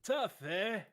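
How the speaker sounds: very high, loud Scottish comic voice; high Scottish rant, slowing at the end; Billy Connolly impression. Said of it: "I think it's a Billy Connolly impression".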